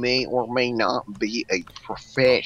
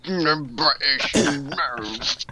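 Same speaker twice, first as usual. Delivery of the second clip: put-on British accent; 3 semitones higher, much slower than usual. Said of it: "I'm totally British".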